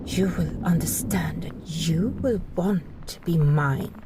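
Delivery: low possessive whisper. Acted. Possessive vow to captive.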